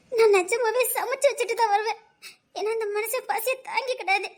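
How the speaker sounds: crying. Acted. Wife crying while explaining.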